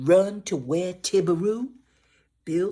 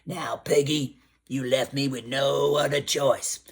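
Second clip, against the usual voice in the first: deep gator voice. Acted. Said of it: "in that deep gator voice".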